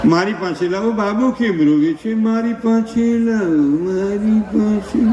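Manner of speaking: put-on slow, pleading dad asking for the baby; doting father. Father begging to hold his crying baby, slow and doting. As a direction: coax them to hand the baby over.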